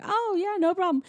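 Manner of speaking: high, soft faux-ladylike agreement; pretend lady. Disguised lady answering the officer, high and agreeable. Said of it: "And she's like".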